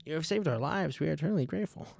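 quiet, earnest thanks; hushed, solemn gratitude; soft grateful voice. Retold or imitated. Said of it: "If we get out of there".

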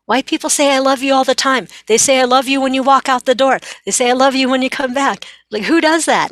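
high, loud disbelief at all the I love yous; mock the custom in amused disbelief; incredulous patient. Asian patient to therapist, incredulous about hugging culture. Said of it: "one of my patients who was Asian saying".

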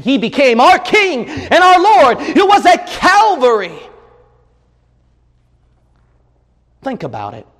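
high, loud preacher's cry; fervent pulpit shout; preaching at full force. Acted.

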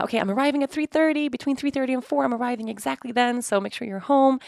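urgent reminder to the family; retold voice message. Voice messages to family about her arrival, high urgent. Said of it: "voice messages".

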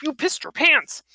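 high-pitched mocking jab; jeering taunt. Pinned old man goading Andy, jeering taunt. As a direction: needle her with a lifted, jeering voice. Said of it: "sniggering in pain".

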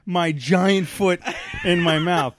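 words broken by real laughter; laughing while talking. Real, not acted. Laughing as he recalls his blunder in class.

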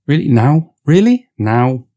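can't believe he's asking this now; exasperated disbelief. Acted. Podcaster incredulous at Vlad asking about love now.

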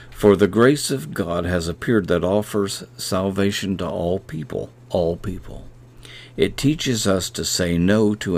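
a measured, reverent reading of the verse; scripture reading. Acted. Preacher reading Hebrews to podcast listeners, reverent.

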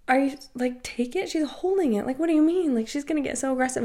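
retold high-pitched, incredulous pushback; flustered objection. Bartender told to take a customer's drink, flustered high objection. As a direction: balk at the order in a high voice. Bartender balks at manager's order.

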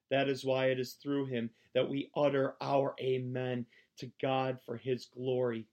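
earnest, emphatic Bible reading; scripture reading. Acted. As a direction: read it out like from the pulpit. Reads scripture aloud.

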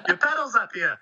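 high-pitched call from uphill; playful imitation of a distant hail; mock scream down. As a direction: imitate a guy hollering down, amused. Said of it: "screams down to me".

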